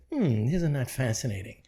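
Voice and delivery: a hint of cool fascination; Spock-like calm. Showing how to answer negativity, lightly calm and soft.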